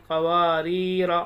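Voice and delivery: "क़वारीरा" with long वा and री, short final रा; unstretched रा. Shown as a demonstration. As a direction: stop short on the last रा of "क़वारीरा". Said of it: "ऐसे पढ़ेंगे". ("क़वारीरा" का आख़िरी रा छोटा)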